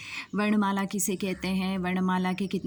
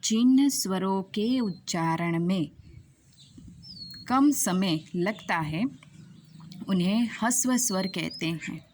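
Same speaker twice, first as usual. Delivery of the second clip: slow, spaced out, with long pauses between phrases; slow teacher's dictation; slow deliberate repeat. Shown as a demonstration. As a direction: dictate the definition slowly so students can note it down. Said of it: "वापस एक बार".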